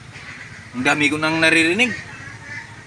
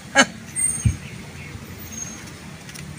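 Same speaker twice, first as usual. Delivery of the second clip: villain laugh; 7 dB quieter than usual. Acted. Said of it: "parang kontrabida yung tawa".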